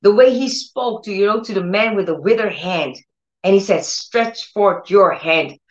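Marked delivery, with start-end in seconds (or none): 3.8-5.6 slow, measured command. Retold or imitated. Preacher quotes Jesus to the man with withered hand, slow command. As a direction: order it slowly, word by word. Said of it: "That's the way he spoke".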